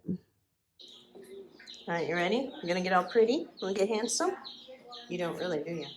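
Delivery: hushed, cooing to the dog; soft coaxing voice for the pup; gentle hushed pet talk. Real, not acted.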